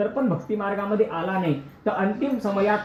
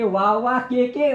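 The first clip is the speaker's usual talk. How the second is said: put-on slow, a bit higher and louder old granny; the revived granny spells it out slowly and firmly; granny, now stronger; 4 semitones higher, 3 dB louder, much slower than usual. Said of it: "केव्हा तर सांगते". (शक्ती आलेली आजी, हळू पण जोरात सांगते)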